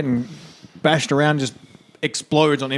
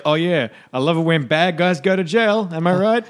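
smug villain; 6 semitones higher than usual. Retold or imitated. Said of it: "'Cause Tin's like".

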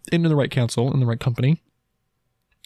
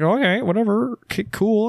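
dismissive; 8 semitones higher than usual. Retold or imitated. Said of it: "I'm like".

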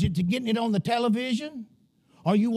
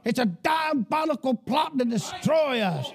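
raised, driving pulpit voice, pressing every line home; fiery preaching; 3 semitones higher than usual. Acted. Pastor warning his church the nation has gone crazy, fiery sermon voice. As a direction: preach it hard to a congregation, full of alarm.

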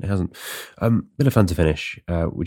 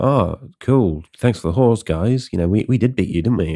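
smug winners; 4 semitones higher, 4 dB louder than usual. Retold or imitated. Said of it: "they're like".

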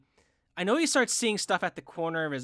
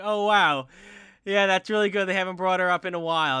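louder, higher dawning amazement; retold impressed surprise; 5 semitones higher, 8 dB louder than usual. Fan retelling reaction to the dream scene, impressed. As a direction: react as if it just hit you.

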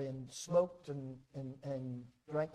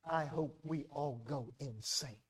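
quiet sincerity; 3 semitones lower, 3 dB quieter, slower than usual. Real, not acted. Quiet slow punchline after loud section.

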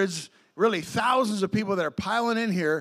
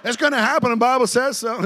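laughing mock doom; 4 semitones higher, 6 dB louder than usual. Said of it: "that's a little, little extreme".

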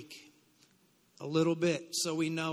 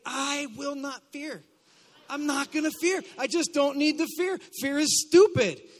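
raised pitch, building to a loud, scornful finish; defiant declaration; 4 semitones higher, 5 dB louder than usual. Shown as a demonstration. Preacher showing congregation how to say it, defiant. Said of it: "Say it like".

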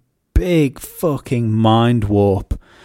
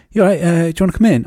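mock gym salesman; 7 semitones higher, 4 dB louder, much faster than usual. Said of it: "some guy come outside and go".

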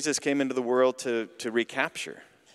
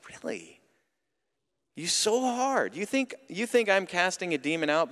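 incredulous Jesus; 3 semitones higher than usual. Retold or imitated. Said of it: "It's just like".

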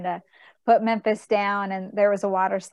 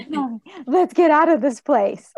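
put-on repeating the child's line through laughter, higher and louder; laughing retelling; 7 semitones higher, 8 dB louder than usual. Mom laughing as she repeats her son's line. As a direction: laugh while quoting the boy's plea. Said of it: "Memphis goes".

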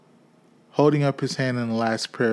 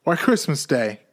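put-on boy's voice; 4 semitones higher, 4 dB louder than usual. Boy answering up.

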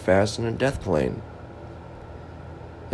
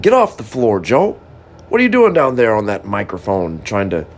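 mock scold, a bit louder; retold angry scolding; 4 dB louder than usual. Joe quoting the angry device telling him to get off the floor, mock scolding. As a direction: bark it back as the device said it. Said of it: "Boy, you got angry at me".

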